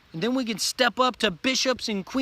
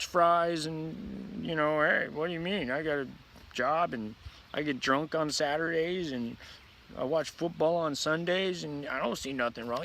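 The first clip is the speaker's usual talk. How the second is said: mock oblivious guy; 3 semitones lower, 3 dB quieter than usual. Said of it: "Call it what you want and be like".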